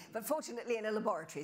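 quick words through a laugh. Real, not acted. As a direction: laugh as you say it. Laughs about the crash.

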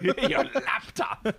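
high, slow words through a laugh; laughing echo. Real, not acted. Friend echoing the laptop joke, laughing. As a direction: giggle it out in amusement.

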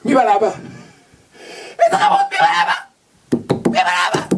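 put-on high baby-talk coo to his son; father cooing at his baby; doting father. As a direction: coo to a toddler. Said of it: "רוצה לחבק את הבן שלי".

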